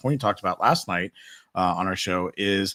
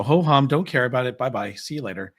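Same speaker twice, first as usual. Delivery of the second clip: bored dismissal; 2 semitones higher than usual. Retold or imitated. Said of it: "that makes me just go".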